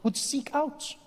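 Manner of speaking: measured storyteller with long pauses; mock-historical narration; story narration. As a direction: tell it as solemn history, phrase by phrase.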